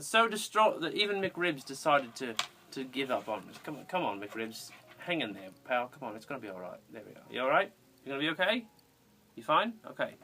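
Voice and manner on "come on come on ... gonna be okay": soft, lower coaxing to a pet; soothing the pet softly. Real, not acted. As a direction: gently urge the little guy on.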